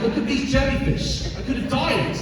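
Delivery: high, agitated retold protest; acted-out outrage at the instructor; pissed off. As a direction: protest indignantly, pitch jumping up. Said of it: "I was pissed".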